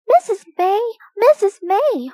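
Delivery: high, urgent call for attention. A narrator's reading. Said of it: "called Biff".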